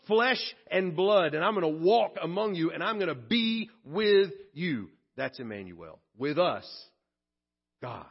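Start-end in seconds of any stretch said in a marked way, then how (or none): 0.0-4.9 God's promise. Acted. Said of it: "God said".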